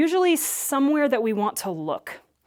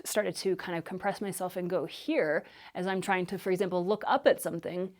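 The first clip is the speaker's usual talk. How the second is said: vocal fry; 3 semitones lower, 6 dB quieter than usual. Shown as a demonstration. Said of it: "I notice that I'm going into vocal fry".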